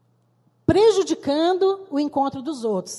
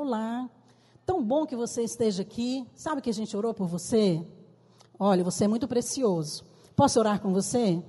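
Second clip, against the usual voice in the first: put-on softer, caring words to a child; gentle, tender; 4 dB quieter than usual. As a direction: coax him kindly and quietly. Gentle words to troubled boy. (voz mansa e carinhosa com o menino)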